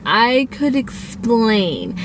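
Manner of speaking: slow, stretched-out stalling; sheepish excuse. Retold or imitated. Caught teen starting to explain to parents, sheepish. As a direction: draw it out as if treading carefully.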